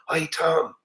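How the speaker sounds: softly imitating a hushed call; a mild, hushed imitation of the employee; retold whisper. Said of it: "And she was kinda whispering".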